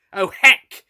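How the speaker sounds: Doctor fleeing the Judoon, yelling. A narrator's reading. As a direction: blurt it in a panic. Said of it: "I yelled".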